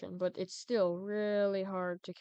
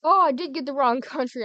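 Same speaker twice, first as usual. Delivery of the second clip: loud startled exclamation, higher; surprised outburst; 6 semitones higher, 12 dB louder than usual. Real, not acted. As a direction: blurt out the mistake. Realizes he clicked wrong country.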